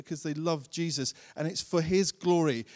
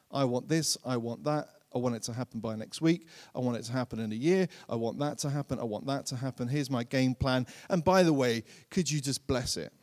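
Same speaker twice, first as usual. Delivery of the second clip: mock self-centred prayer; 5 semitones lower, 4 dB quieter, faster than usual. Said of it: "mocking prideful prayer".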